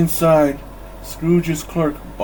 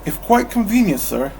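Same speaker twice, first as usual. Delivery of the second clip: polite reply; 6 semitones higher than usual. Acted. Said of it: "Cratchit said politely".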